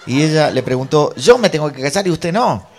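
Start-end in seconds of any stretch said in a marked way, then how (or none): 1.1-2.7 high, loud mock outrage; indignant question. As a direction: act out an affronted retort. Mujer replica en la riña. (pregunta indignada, aguda y fuerte)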